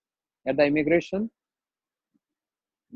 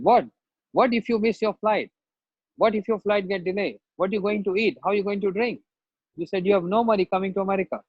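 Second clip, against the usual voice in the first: mock rude officer, higher, rushed at the end; a hint of a harsh immigration officer grilling him; rude official; 4 semitones higher than usual. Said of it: "she was very rude on me again".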